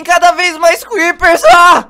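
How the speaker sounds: panicked shout. Acted. Kadris surrounded by creepers, loud panicked scream. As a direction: yell in panic as they close in.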